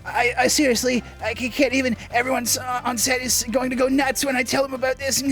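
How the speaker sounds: high, stammering excitement; gushing fanboy. Acted. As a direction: trip over the words, starstruck.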